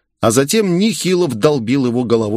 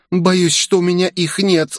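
put-on higher girl's voice, grim; Asami's reply; 8 semitones higher than usual. Asami answers Jeff, grim. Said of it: "ответила Асами".

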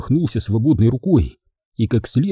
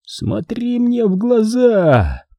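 very slow, high, eerie hiss; sinister hissing; 11 semitones higher, much slower than usual. Acted. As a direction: stretch it out like a dream. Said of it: "раздалось зловещее шипение".

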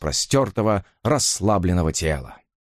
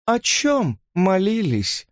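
incredulous; 10 semitones higher, much slower than usual. A narrator's reading. Elisa questions in disbelief.

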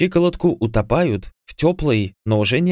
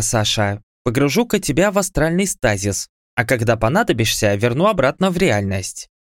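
higher, scornful divine voice; haughty goddess; 3 semitones higher than usual. Acted. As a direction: dismiss the mortal from above. Goddess refuses the hero.

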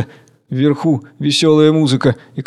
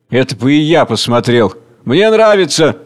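eager agreement; 3 dB louder than usual. Acted. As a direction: relish the idea. Another speaker agrees.

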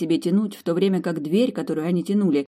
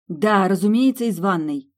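furious; 3 semitones higher, 4 dB louder than usual. Acted. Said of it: "Милли была в бешенстве".

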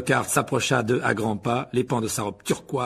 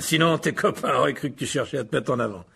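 paternal; 2 semitones higher than usual. Acted. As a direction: confide it like a self-satisfied father. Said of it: "d'un ton paternel". (conseil paternel, plus grave)

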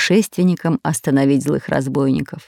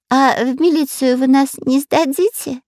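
cowardly; 8 semitones higher than usual. A narrator's reading. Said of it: "трусливо спросил шпион Дырка".

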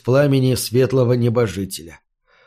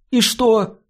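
irritated; 8 semitones higher than usual. A narrator's reading. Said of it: "раздражённо спросил мальчик".

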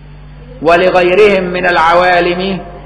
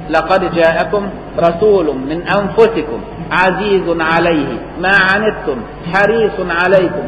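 Quran recitation. Acted.

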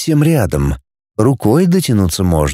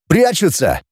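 higher-pitched alert; mild cry out; 5 semitones higher than usual. Acted. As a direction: call it out urgently without real volume. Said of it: "крикнул он". (негромкий тревожный выкрик)

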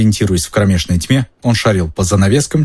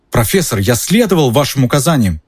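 indignant exclamation; 5 semitones higher than usual. Acted. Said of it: "воскликнул Перси, кипя от возмущения".

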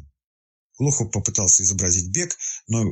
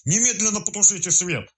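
blurted order; 12 semitones higher than usual. A narrator's reading. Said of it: "выпалил".

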